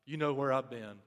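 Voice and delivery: low, soft, humbled confession; confessing tone. Retold or imitated. Elijah confessing to God what he already knows, soft and low. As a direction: admit it quietly, head bowed. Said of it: "the tone this time is".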